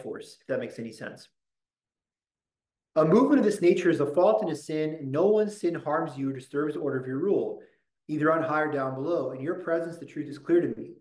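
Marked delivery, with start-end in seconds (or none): 3.0-10.9 prayer reading. Shown as a demonstration. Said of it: "reading the prayer text".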